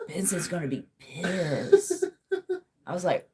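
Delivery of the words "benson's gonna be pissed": quoted cartoon dread. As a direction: lightly imitate a cartoon character dreading trouble. Repeats the cartoon character's line.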